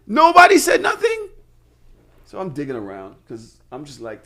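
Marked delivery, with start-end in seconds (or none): 0.1-1.3 laughing disbelief. Real, not acted. Laughing disbelief about the role.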